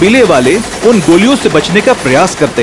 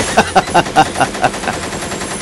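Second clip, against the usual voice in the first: mocking laugh; 6 dB quieter than usual. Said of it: "सभी लोग बहुत हंसते हैं".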